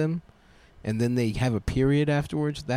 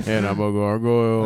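gargoyle voice; 3 semitones lower, 4 dB louder than usual. Pretend.

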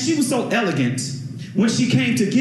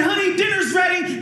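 sweet mother; 10 semitones higher than usual. Retold or imitated. Elegant mother calls son.

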